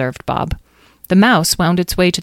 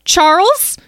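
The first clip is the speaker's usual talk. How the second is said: high little creature calling; cautious small voice; 7 dB louder than usual. A narrator's reading. Mouse calls for its friend, cautiously. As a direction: call out for a missing friend, unsure. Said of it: "the new voice asked cautiously".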